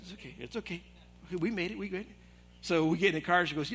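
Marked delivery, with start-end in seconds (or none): 0.0-2.1 much softer, near whisper; hushed urging. Retold or imitated. Wife quietly steering husband past the old couple, whispered. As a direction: hush him along like a wife steering her husband. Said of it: "my wife".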